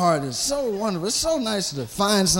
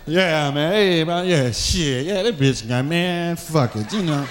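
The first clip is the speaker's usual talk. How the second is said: lower, mumbled barroom rambling; drunk bar talk; 4 semitones lower than usual. Acted. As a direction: slur it like a man drunk at the bar.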